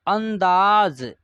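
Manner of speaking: अंदाज with a clear nasal n, drawn out slowly; slow demo pronunciation. Shown as a demonstration. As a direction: say अंदाज slowly, stressing the half n. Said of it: "इसका उच्चारण आधा न का होगा".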